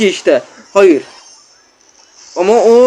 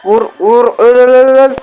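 excited urging; 4 semitones higher, 4 dB louder than usual. Real, not acted. Urging attack while gaming.

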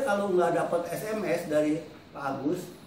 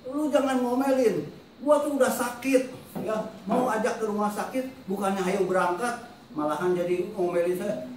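reliving the moment he lashed out, harsh and raised; retold angry outburst; 4 semitones higher than usual. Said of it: "keluar kata-kata yang agak kasar". (marah meledak, suara tinggi dan keras)

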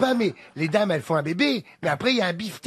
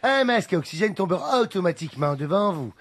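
flight safety announcement; 2 semitones higher than usual. Shown as a demonstration. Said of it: "Vas-y, je te suis ... Fais-le".

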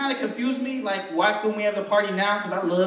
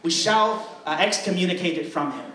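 white church pastor. Retold or imitated. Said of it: "that's the white church".

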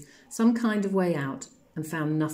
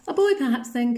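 put-on ghost child, tentative; 8 semitones higher, 7 dB louder than usual. A narrator's reading.

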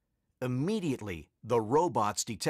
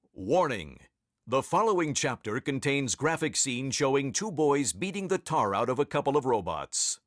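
mock warning notice. A narrator's reading.

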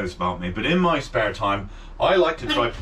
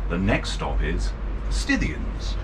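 bus announcer voice; 6 semitones lower, slower than usual. Acted. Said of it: "the voice of the buses".

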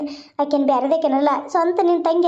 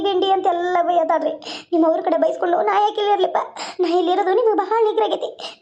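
higher-pitched wife whining her grievances; complaining wife; 3 semitones higher than usual. Acted. Wife complaining to her husband about his mother, higher and whiny. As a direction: pour out the complaint, half laughing.

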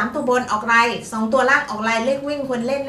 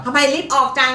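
mock puzzled question; 6 semitones higher, 6 dB louder than usual. Host imitating her co-host asking why she rushed, mock puzzled. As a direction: stretch out ทำไมรีบออกจัง as if baffled. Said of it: "อาจารย์สอนศิลป์เนี่ยถามว่า".

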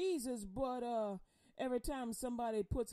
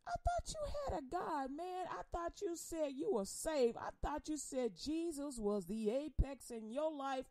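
mock disbelief; 3 semitones higher than usual. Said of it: "people keep saying".

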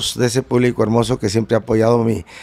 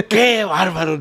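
retold shout; 7 semitones higher, slower than usual. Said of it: "les dijo así".

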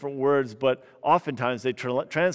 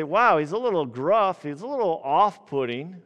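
mock reader reaction; 4 semitones higher, 4 dB louder than usual. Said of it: "look at him and say".

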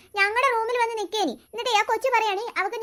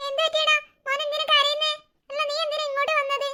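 high-pitched, coaxing concern; 6 semitones higher than usual. Acted. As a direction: ask a crying little one what's wrong, pitched high. Asking a crying little boy. (കരയുന്ന കുഞ്ഞിനോട് ആശങ്കയോടെ)

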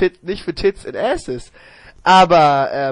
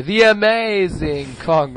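ring announcer voice; much slower than usual. Pretend. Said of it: "Jeremy Borash sagt das Match an".

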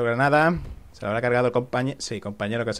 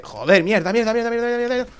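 rising panicked cursing; panicking gamer; 8 semitones higher than usual. Real, not acted. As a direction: swear faster and higher in panic. Enemy found him, panic.

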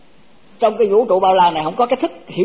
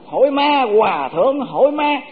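imitating the monk's question; 5 semitones higher, slower than usual. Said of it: "Tức là hỏi là tôi nói vậy mà hòa thượng có hiểu không".

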